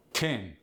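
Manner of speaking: "tin" with a short I standing for ten too; Appalachian short I. Shown as a demonstration. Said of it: "short E becomes a short I".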